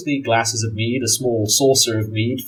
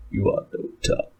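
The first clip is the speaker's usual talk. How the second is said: Ulfric's doubt; 5 dB quieter than usual. Acted.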